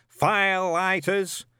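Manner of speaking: put-on high, barking old sergeant; old witchfinder sergeant. A narrator's reading. Shadwell drilling Newt through the kit list, barking. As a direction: bark out the checklist like a drill sergeant.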